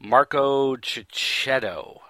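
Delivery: slow, careful attempt at "Marco Cicchetto"; unsure pronunciation. Real, not acted. Host butchering an artist's name, "Cicchetto" said slowly and unsurely. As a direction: feel out "Cicchetto" slowly, tripping on the first syllable. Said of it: "I'm going to pronounce this wrong".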